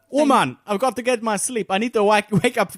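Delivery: bad Jamaican accent. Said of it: "I can't do a Jamaican accent".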